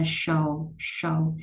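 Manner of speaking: "show" with sh and the tongue curled up for a final L. Shown as a demonstration. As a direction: say "show" as "shul", tongue lifting at the end. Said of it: "Cong lưỡi âm L lên". (show cong lưỡi âm L)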